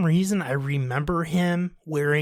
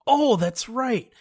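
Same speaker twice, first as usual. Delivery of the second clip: slow, sheepish realization; slow sheepish kid; 7 semitones higher, slower than usual. Retold or imitated. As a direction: drag it out, caught and covering. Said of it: "And I go".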